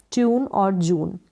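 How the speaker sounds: "ट्यून और जून" with a long oo. Shown as a demonstration. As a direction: model the oo vowel in "ट्यून और जून". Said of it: "यू को ऊ pronounce करेंगे".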